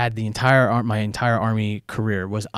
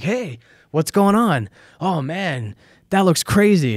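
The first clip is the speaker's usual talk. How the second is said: put-on drunk; 7 semitones higher, 3 dB louder, slower than usual. Drunk soldier walks into ER.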